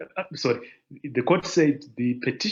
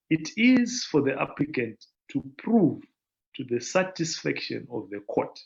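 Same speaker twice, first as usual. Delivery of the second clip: deliberate slow reading; 2 semitones higher than usual. Real, not acted. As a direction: read out a little more slowly, in measured phrases. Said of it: "I should read this slowly".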